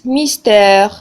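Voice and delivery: "ميستير" with a long è in the last syllable; lengthened vowel. Shown as a demonstration. Teacher contrasting with accent aigu, elongated "ميستير". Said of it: "طولنا شوية لا برونونسياسيون".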